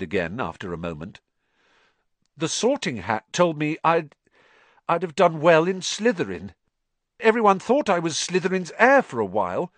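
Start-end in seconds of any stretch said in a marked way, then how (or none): 2.4-9.7 put-on higher boy's voice, worried and pressing; a troubled boy confessing his fear; earnest schoolboy confiding a fear; anxious young Harry. A narrator's reading.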